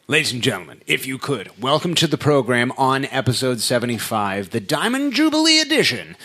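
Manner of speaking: big show announcer welcome. Acted. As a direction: boom out the program intro. Host announcer intro.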